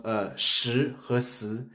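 时 said with a curled-tongue "sh", 死 with a flat "s", slow; careful 时 vs 死 contrast. Shown as a demonstration. Friend explaining Nelly's mixed-up 时 and 死, slow careful contrast. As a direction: say 时 retroflex and 死 flat, spaced out. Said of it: "卷舌和平舌的这个".

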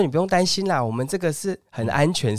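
high, sugary phone voice calling his name; sweet saleswoman caller. Retold or imitated. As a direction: coax him like a pushy recruiter. Caller reassures. (高声甜腻的女推销员)

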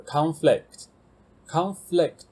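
conflict said slowly twice, stress on CON; teacher reading a vocabulary list, slow careful model word. Shown as a demonstration. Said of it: "conflict是冲突的意".

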